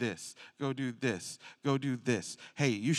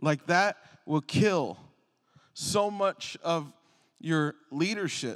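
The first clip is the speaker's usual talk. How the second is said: ordinary delivery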